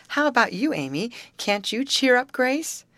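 high, bright urging; coaxing. A narrator's reading. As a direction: coax her to speak up. Betty urging Amy to share.

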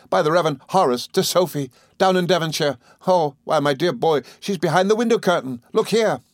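high, eager newlywed gentleman; excitable friend. A narrator's reading. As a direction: share the happy news excitedly.

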